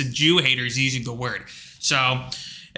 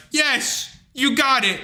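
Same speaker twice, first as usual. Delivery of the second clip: mock praise; 8 semitones higher, slower than usual. Praising the clerk's pronunciation.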